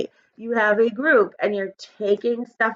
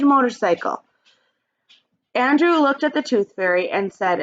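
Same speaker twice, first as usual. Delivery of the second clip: put-on expressive read-aloud for young kids; storybook reading; 2 semitones higher than usual. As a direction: read it like story time for the class. Teacher reads picture book aloud.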